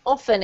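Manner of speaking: "Often" with no T sound, like offen; silent T. Shown as a demonstration. Teacher confirming the student's example, T silent in "Often". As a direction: say "Often" leaving the T out. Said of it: "often or often, either's fine".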